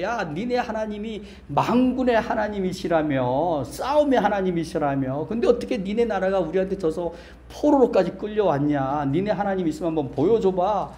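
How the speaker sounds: lightly acted jeer; mocking taunt. Captors jeer at exiled Israel, mock taunting. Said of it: "조롱을 당하는 거죠".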